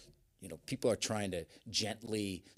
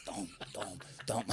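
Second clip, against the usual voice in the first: thudding imitation; 4 dB quieter than usual. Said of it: "you can hear people just thudding".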